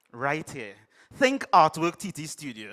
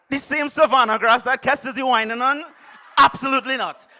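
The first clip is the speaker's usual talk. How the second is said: louder, higher indignant retort; mock outrage; 5 semitones higher, 7 dB louder than usual. Poet cutting off his therapist in mock outrage. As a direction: huff it back at the doc.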